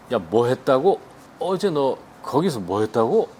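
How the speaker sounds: mock-surprised question to a friend; a touch of surprise. Shown as a demonstration. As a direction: sound a little taken aback. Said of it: "이렇게 약간 놀란 듯이 하면".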